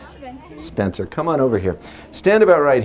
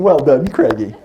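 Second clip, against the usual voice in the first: kind teacher; 3 dB louder than usual. Retold or imitated. Teacher's kind praise retold.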